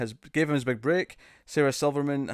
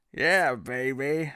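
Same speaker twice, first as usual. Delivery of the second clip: slow Austin Powers try; much slower than usual. Retold or imitated. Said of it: "can you do Austin Powers say".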